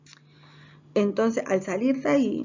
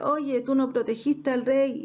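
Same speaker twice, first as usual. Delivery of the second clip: higher, taunting acted call; mocking; 5 semitones higher than usual. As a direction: lightly jeer at the guard. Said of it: "comenzó a burlarse de".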